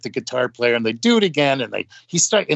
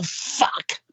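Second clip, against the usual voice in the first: imitated exasperated whisper; whispered curse; 5 dB quieter than usual. Bandleader giving up the stage to the openers, exasperated whisper. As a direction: curse under the breath, all whisper.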